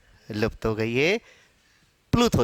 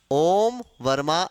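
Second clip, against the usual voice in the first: ओम वर्मा ऐसा लिखेगा said slowly and lower; slow, lower reading; 3 semitones lower, much slower than usual. Shown as a demonstration. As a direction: spell out how he writes it, slowly. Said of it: "वो अपना नाम". (धीमी, नीची आवाज़ में समझाना)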